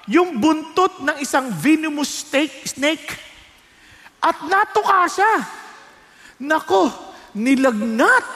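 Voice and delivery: usual speaking voice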